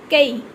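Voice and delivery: कई said as kai, gliding from a to i; ai sound. Shown as a demonstration. Teacher showing the ai sign, demonstrated कई. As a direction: glide through the vowel in कई. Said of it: "ऐ की आवाज़ आती है".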